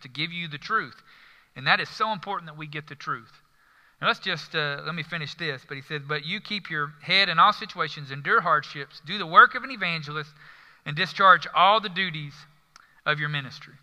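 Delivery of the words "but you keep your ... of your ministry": proclaimed verse with strong stresses; emphatic scripture reading. Acted. Preacher rereads Paul's charge to Timothy, emphatic scripture reading. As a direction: read the charge out firmly, phrase by phrase.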